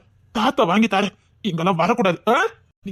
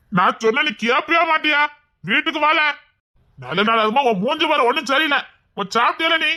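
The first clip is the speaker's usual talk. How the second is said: raised pitch, mildly cross nagging; impatient scolding; 4 semitones higher than usual. Acted. Uncle ordering his reluctant nephew home, scolding impatiently. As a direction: order him about, impatient and exasperated.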